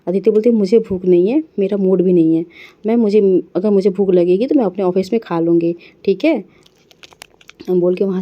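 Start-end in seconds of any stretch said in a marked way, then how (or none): 0.5-6.4 curt refusal. Acted. Aditi storms out refusing breakfast.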